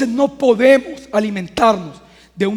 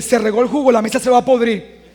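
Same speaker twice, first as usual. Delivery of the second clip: a hint of the worried mother, with a laugh; lightly voiced fretful mother predicting doom; mother's gloomy version. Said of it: "Ella dice".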